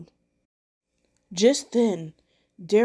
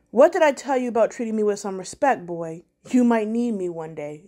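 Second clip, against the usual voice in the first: quip. Acted. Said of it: "Deshawn quipped".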